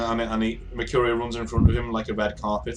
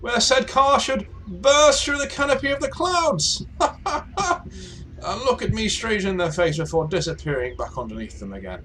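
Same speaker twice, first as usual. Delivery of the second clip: theatrical airship gentleman; 9 semitones higher than usual. Acted. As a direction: declaim the tale grandly, easing down at the end. Game master plays airship gentleman.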